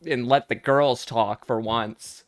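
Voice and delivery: a lightly put-on valley girl, mock-sassy. A mild valley girl voice telling off her dumb cohost. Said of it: "that's how girls from the valley talk".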